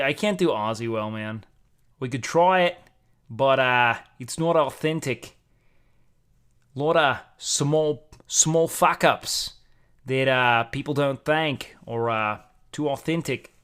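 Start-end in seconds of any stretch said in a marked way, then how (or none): 2.0-9.5 put-on Australian accent. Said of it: "Do an Aussie".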